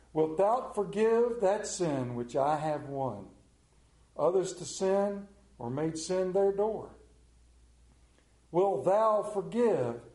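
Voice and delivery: slow, loud, solemn recital of a poem; poem recitation. Acted. Preacher reciting John Donne to the church, slow and solemn. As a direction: recite the Donne hymn with weight.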